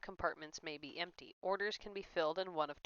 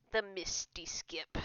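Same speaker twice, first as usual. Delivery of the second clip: hushed whisper of a place name; 4 dB quieter, slower than usual. Real, not acted. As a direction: breathe it out unvoiced. Reading game place name.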